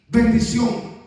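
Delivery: emphatic. Acted. Word repeated, loud second.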